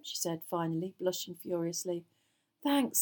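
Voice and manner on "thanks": higher, louder thanks; a touch of relief; relieved. A narrator's reading. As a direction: let the relief out. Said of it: "said Harry in relief".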